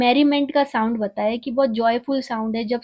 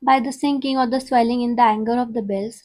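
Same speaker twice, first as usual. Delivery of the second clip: slow, measured poetry reading; poem recital; much slower than usual. Acted. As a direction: read each line out slowly like a recital. Reads poem aloud slowly. (धीमी, नपी-तुली कविता पाठ)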